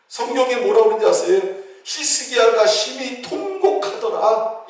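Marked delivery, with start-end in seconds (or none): 1.8-4.6 slow, higher, weighty verse reading; preacher quoting scripture slowly; solemn scripture reading. Shown as a demonstration. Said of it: "이렇게 말씀하고 있습니다".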